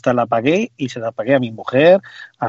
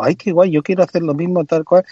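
higher, gushing mimicry of a freeloader; mocking eager gush; 4 semitones higher than usual. Mocking a friend who wants the same app, gushing. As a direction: ham up the excited cheapskate.

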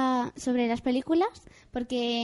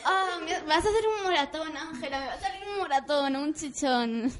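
exaggerated little sister; 3 semitones higher than usual. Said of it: "se lo pone en el brazo o en la pierna y dice".

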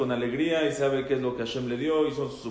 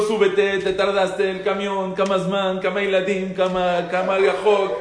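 higher, louder hurried calling; retold shout; 4 semitones higher, 5 dB louder than usual. Israeli bus driver yelling at the late visitor, louder retold shout. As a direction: rush him onto the bus, half shouting. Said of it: "Me gritó".

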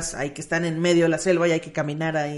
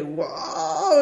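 awed; 7 semitones higher than usual. Retold or imitated. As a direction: breathe out wonder.

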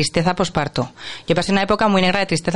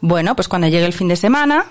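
patient parent. Acted. Calm parent answering insistent child.

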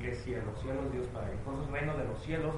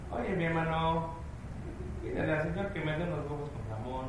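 put-on Mexico City accent; 3 semitones higher than usual. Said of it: "como se me permite hacer el acento".

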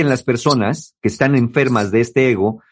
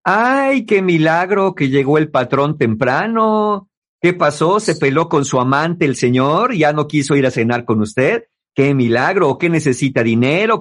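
mock the late-arriving husband, only a touch put on; sarcastic mockery. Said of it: "el sarcasmo ... Como cuando dicen". (burla sarcástica ligera a la pareja)

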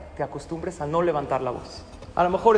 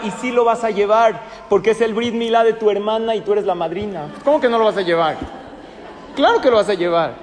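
angry argument; 2 semitones higher than usual. Acted. Acted quarrel with parent over outfit.

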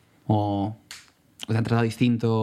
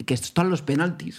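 retold urgency; 5 semitones higher than usual. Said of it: "Que tenía contracciones y nosotros".

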